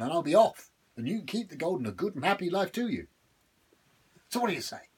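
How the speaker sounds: high, wheedling devil, pleased with himself; sly devil voice. Acted. Devil coaxing Patrick with gold, high and sly. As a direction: dangle the gold like bait. Devil tells his tale.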